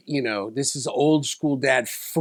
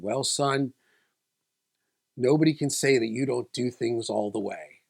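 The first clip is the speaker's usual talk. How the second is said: gentle dad. Retold or imitated. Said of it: "And he said".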